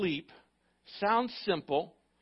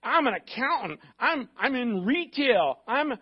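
high, much louder "Oh, oh, wait" of someone dodging; mock excuse; 4 semitones higher, 5 dB louder than usual. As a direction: imitate the believer making excuses, higher. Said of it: "You know".

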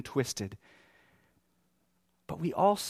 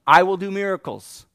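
raised, emphatic divine answer; insistent God; 4 semitones higher, 10 dB louder than usual. Acted. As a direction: answer the objection forcefully. God answering Moses' objections.

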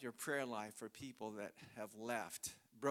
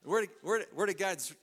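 forceful preaching; 4 semitones higher, 7 dB louder than usual. Real, not acted. Preacher proclaiming scripture.

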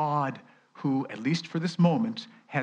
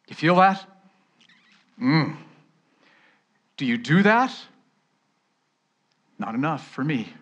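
higher and louder, stirring the crowd; rousing preacher; 6 semitones higher, 7 dB louder than usual. Acted. Preacher rallying the congregation, rising and loud. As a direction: fire them up with each question.

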